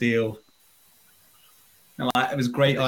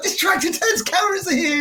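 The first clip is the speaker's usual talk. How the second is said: put-on talking to a toddler. Mother voicing herself to toddler.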